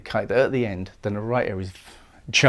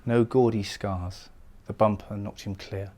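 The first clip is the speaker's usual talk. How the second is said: calm reading; 2 semitones lower than usual. Shown as a demonstration. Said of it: "Should it be said calmly?".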